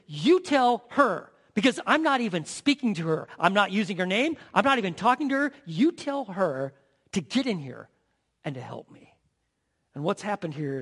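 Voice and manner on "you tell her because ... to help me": bossy Martha. Acted. Martha telling Jesus to send her sister, indignant. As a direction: order Jesus around in a huff. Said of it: "She walks up and says".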